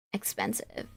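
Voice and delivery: breathy whisper of Expensive, no voice at all. Acted. Reading a game character's line as a whisper. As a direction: let it out as a secret aside.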